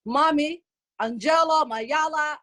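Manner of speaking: mock a kid's eager attempt at Somali; kids trying Somali. Kids calling mom in attempted Somali, imitated. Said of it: "you come to me and you're like".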